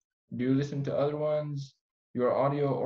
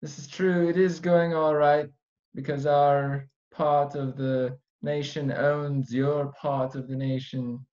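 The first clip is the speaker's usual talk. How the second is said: put-on British accent; slower than usual. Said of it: "I will do my British".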